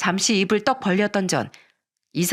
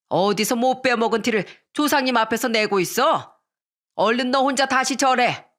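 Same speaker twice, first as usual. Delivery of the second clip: lightly voiced overbearing mother-in-law; scolding mother-in-law; 2 semitones higher than usual.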